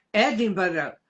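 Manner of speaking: Edinburgh said low and clipped, ED-in-bruh; English pronunciation. Shown as a demonstration. Teacher showing one English way to say Edinburgh. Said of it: "dependendo de onde você é".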